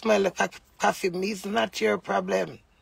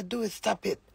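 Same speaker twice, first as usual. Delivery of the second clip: hushed, much softer plea; retold hushed plea; 2 semitones higher, 7 dB quieter than usual. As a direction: drop the voice so the kids won't hear. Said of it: "me have to whisper".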